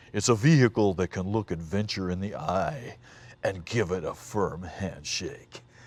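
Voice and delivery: very low, soft, grand dramatic announcer voice. Retelling a Bronco commercial, quoting the guy talking in a big dramatic voice. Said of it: "you got this big dramatic voice".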